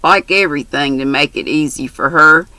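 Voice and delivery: lightly voiced brash country girl; chatty, bold young girl. Mary's dialogue voiced.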